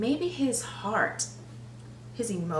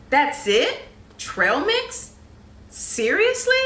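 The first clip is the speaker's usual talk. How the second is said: disbelief; 5 semitones higher, 3 dB louder than usual. Acted. Pig outraged at meagre treasure.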